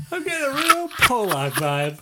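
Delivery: jester's punchline, hammed up; high, loud jester jab. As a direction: repeat the roast in the heckler's voice. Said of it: "repeats the jester's line".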